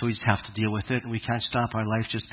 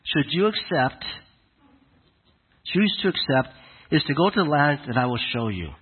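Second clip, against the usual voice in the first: voice of God speaking; 3 semitones higher than usual. Acted. Preacher voicing God commissioning Abraham, a hint of majestic proclamation. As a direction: proclaim it as a grand calling, mostly in your own voice. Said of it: "essentially told Abraham".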